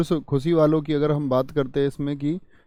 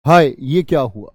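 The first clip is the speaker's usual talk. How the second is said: grief; 7 dB louder than usual. Shown as a demonstration. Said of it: "दुख का भाव है".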